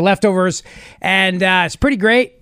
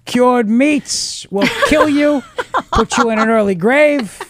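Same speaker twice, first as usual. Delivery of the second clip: Cuomo impression; 4 semitones higher than usual. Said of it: "my Andrew Cuomo".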